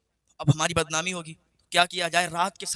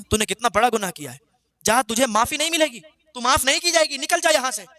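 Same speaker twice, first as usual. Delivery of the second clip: raised, higher, stern and furious; wrathful rebuke; 4 semitones higher than usual. Acted. Moses casting out the sinful woman, furious higher rebuke. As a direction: thunder at her in righteous wrath. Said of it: "غضب و جلال میں آ گئے".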